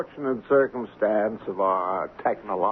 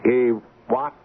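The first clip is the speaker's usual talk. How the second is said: shocked; 4 dB louder than usual. Acted. Shocked that the captain survived.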